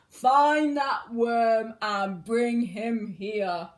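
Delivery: a storybook wizard commanding, drawn out; lightly voiced sinister wizard; wizard's order. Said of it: "He mutters in his servant's ear".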